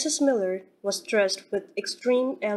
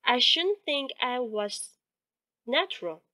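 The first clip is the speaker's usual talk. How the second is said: soft monotone; 3 semitones higher than usual. Acted. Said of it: "in her little soft, flat monotone".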